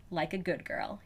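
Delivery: quiet voiced line; spoken softly. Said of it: "he says".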